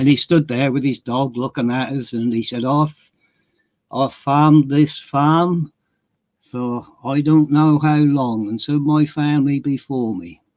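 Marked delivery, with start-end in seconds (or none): 2.6-10.3 slow, flat, dry, deadpan Suffolk farmer drawl. Retelling what a farmer said while standing with his dog, imitating a deadpan Suffolk man. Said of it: "Typical deadpan Suffolk man".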